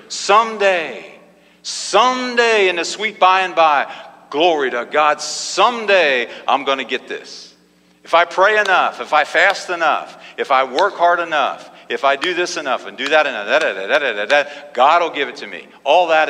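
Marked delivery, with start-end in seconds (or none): 0.1-7.5 mock-devout believer pining for later; mock wistful piety. Mocks putting faith off to someday. 8.0-15.7 rattled-off list trailing into da-da-da; mildly mocking singsong list; mock striving believer. Mocks earning answers by effort.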